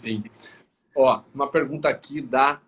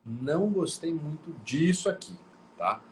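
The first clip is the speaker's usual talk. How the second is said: calm, mild way of saying "não gostei muito disso aqui"; gentle complaint; 3 semitones higher than usual. Shown as a demonstration. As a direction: suave reclamação. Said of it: "Ou eu posso falar".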